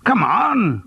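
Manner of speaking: high falling coax, come on; teasing friend pressing for gossip; eager urging. Acted. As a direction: nudge him to spill the news. Gerald urging Charles to spill.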